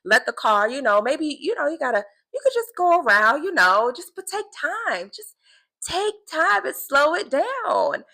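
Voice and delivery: God talking her through the traffic, coaxing; God's gentle correction. Retold or imitated. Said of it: "I'm just like".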